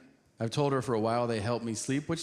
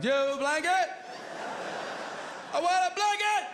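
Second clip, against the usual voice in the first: put-on much higher, whining childish plea; whiny plea; faster than usual. Shivering comic begging travelers for blankets, whiny. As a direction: beg like a desperate kid.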